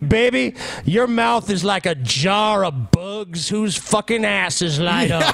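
slow, high mock-romantic line; mock seductive. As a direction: croon it like a cheesy lover. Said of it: "It's like, what?".

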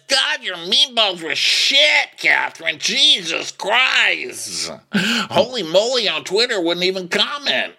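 hammed-up disgust; mocking a fan ranting about bad meatballs. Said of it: "Smile says".

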